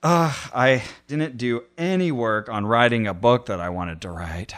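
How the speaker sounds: sighing, self-pitying complaint with a sigh; victim voice. Shown as a demonstration. Class exercise demo of the victim voice, a sighing mild whine. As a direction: moan it out like a put-upon victim. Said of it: "you're supposed to say it like this".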